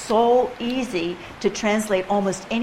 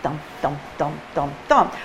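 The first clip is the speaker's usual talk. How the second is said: metronome dum imitation; 4 semitones lower than usual. Shown as a demonstration. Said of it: "the metronome is busy going".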